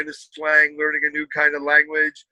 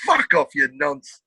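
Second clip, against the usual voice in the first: slow, put-on Essex put-down; mock-scornful Essex accent; 3 semitones lower, slower than usual. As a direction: imitate a dismissive Essex lad, amused. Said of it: "that's a great accent".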